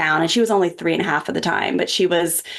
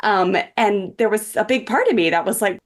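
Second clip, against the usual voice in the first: ordinary talk, nothing marked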